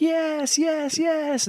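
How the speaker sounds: high, gleeful yeses; eager believers. Retold or imitated. Host mimicking gullible people boarding, gleeful. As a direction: jump at the offer. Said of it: "people are like".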